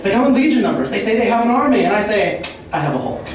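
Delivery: rapid absurd wordplay rant, building; escalating comedy rant. Acted. Roast-style free-association rant.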